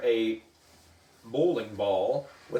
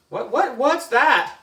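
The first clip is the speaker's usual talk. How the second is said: high, louder frightened stammer; scared stammer; 12 semitones higher, 7 dB louder than usual. A narrator's reading. Emily shaking with fear about brainwashing, frightened stammer. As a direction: squeak it out trembling with fright. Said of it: "Emily was shaking".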